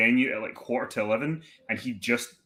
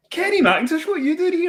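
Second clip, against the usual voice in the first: high, loud, astonished recognition; starstruck barman; 6 dB louder than usual. Retold or imitated. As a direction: gush it out like you've spotted a celebrity.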